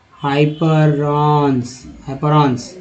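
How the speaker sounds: हाइपरॉन्स drawn out slowly; slow demo pronunciation. Shown as a demonstration. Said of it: "next है हाइपर". (धीमा उच्चारण)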